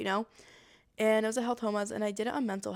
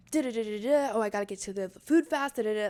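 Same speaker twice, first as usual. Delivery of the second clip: slightly raised, louder chatter of rushing thoughts; amped-up thoughts; 4 dB louder than usual. Retold or imitated. Speaker's own head while hurrying to get food, amped up. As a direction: mimic a racing, amped-up mind. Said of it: "I'm amped up".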